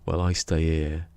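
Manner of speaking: mock comedian quote. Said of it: "He goes".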